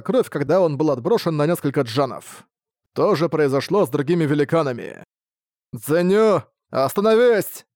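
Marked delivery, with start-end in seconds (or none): 5.7-7.7 high, anguished plea; pleading shout full of sorrow; sorrowful cry. A narrator's reading. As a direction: cry out in grief, pitch rising. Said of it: "прозвучал горестный крик".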